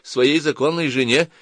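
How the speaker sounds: put-on thin high girlish butting-in; thin little voice. A narrator's reading. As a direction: pipe up in a small, high voice. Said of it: "тоненьким голоском вмешалась она".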